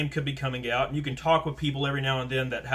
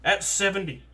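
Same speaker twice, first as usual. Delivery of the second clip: higher-pitched mock disbelief; incredulous comeback; 7 semitones higher, 3 dB louder than usual. Worker answering an elderly assistant manager at Walmart, incredulous. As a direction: splutter at the absurd rank-pulling.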